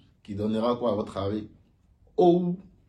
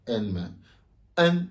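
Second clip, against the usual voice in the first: N drawn out slowly, a bit Chinese; Chinese-sounding N; 2 semitones lower, much slower than usual. Shown as a demonstration. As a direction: stretch the N the Chinese way. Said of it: "un peu chinois". (N lent, un peu chinois)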